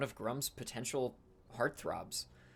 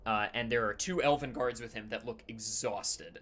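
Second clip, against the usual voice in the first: usual speaking voice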